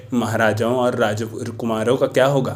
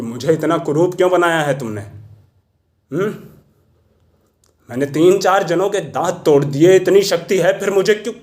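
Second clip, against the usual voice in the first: complaint climbing higher to the end; aggrieved questioning; 3 semitones higher than usual. Acted. Mahout asks God why he was made ugly, aggrieved. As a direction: demand an answer, pitch rising as you go.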